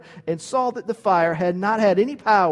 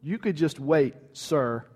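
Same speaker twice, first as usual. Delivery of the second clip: casual brush-off; 4 semitones lower, 4 dB quieter than usual. Retold or imitated. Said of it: "I would have said".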